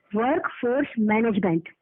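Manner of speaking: slow, measured वर्कफोर्स मैनेजमेंट, word by word; वर्कफोर्स मैनेजमेंट said slowly, each word set apart; instructive. Real, not acted. Teaching the agent the full form.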